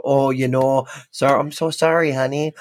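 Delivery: put-on light North Dakota accent, sympathetic "sorry". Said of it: "pulling my North Dakota accent out".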